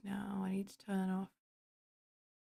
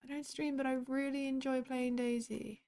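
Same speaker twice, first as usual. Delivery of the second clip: higher, sweet cutesy reread; 5 semitones higher than usual. Shown as a demonstration. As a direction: read it back like something adorable. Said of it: "isn't that just cute?".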